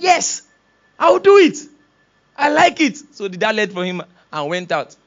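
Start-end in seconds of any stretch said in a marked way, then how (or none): 0.0-3.0 high, bright, eager yes; a child keen to help; eager boy. Acted. Excited boy answers dad.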